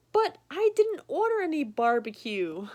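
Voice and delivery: mock bewildered customer; puzzled protest. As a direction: insist you didn't order it.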